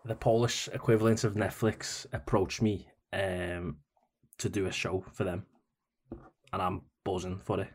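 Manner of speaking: lightly done Scouse lilt, at an easy level; Scouse accent, delivered as an audition line. Shown as a demonstration. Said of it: "my Scouse accent isn't half bad".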